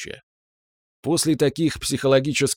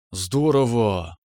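медленно, заворожённо протянуть; тихое восхищение, растягивая слово; очарованно; much slower than usual. A narrator's reading. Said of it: "очарованно выговорила Тимоша". (очарованно, глядя на расписной потолок)

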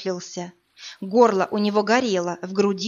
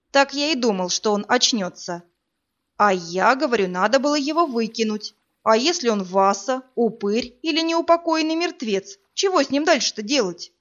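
suspicious fisherman; 2 semitones higher than usual. Acted. Wary fisherman arguing.

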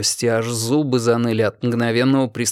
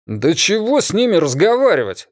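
loud grumble; 7 semitones higher than usual. A narrator's reading. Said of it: "громко буркнул лопоухий".

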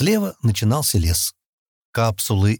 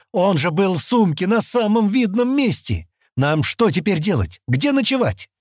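much higher angry yelling; shouting; 9 semitones higher than usual. A narrator's reading. Exasperated shouting. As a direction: Stan keeps shouting at both girls, angry. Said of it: "под его криками".

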